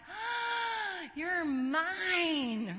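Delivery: high, loud gasp of joy; overjoyed new mother. Retold or imitated. Mother holding her baby, crying out in joyful wonder. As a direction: cry out in wonder over the newborn. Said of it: "I'm like".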